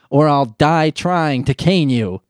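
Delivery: slow, stern father voice. Pretend. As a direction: drag out a lightly voiced stern dad. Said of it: "He didn't say that part".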